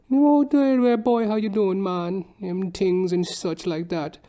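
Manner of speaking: high, lilting Trinidadian greeting; Trinidadian accent. Retold or imitated. Imitating his old Trini barber, high Trinidadian lilt. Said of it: "this old Trini dude".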